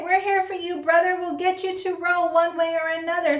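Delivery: high, loud and eager; rally him with excitement; upbeat pep talk to a friend; rallying cheer. Acted.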